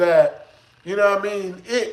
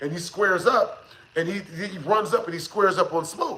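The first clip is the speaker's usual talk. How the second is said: ordinary talk, nothing marked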